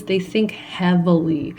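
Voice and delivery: tipsy and giggling. Real, not acted. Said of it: "I am getting tipsy".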